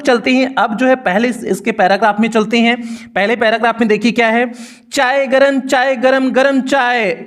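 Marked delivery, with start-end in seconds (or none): 4.9-7.2 lightly raised singsong hawker's cry; a hint of a railway chaiwala calling; tea vendor's call. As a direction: call it out like a tea seller on a train platform. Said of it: "a vendor called out in a high pitched voice".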